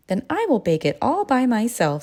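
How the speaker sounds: a hen who won't wait for anyone; determined hen. A narrator's reading. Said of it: "said the little red hen".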